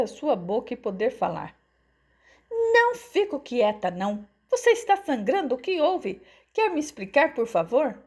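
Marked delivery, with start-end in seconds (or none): 2.5-8.0 high, indignant mother's voice; worked-up, high-pitched worry; alarmed protest. A narrator's reading. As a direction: protest anxiously and demand an answer. Alarmed mother defies her son.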